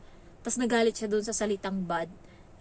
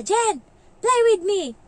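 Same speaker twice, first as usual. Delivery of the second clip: imitating the child; 11 semitones higher, 11 dB louder, slower than usual. Child nagging the nanny.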